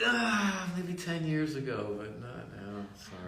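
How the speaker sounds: lightly voiced official turning her away; mock Canadian gatekeeper. Imagined Canada refusing to let her move in, mock polite brush-off. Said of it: "They might be like".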